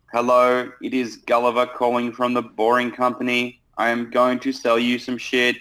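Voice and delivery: a lightly done dull sales opener, barely moved from his own voice; boring corporate intro. Shown as a demonstration. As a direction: read it like a bored corporate caller. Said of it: "Typical corporate intro".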